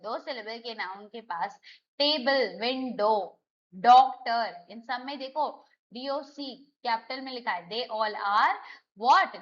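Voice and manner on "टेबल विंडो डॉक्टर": टेबल, विंडो, डॉक्टर each stressed on its first syllable. Shown as a demonstration. Teacher listing two-syllable nouns, first syllable stressed in टेबल, विंडो, डॉक्टर. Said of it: "first syllable".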